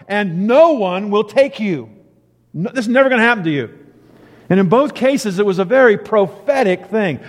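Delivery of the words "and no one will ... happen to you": emphatic certainty. Retold or imitated. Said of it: "black and white statement of reality and truth".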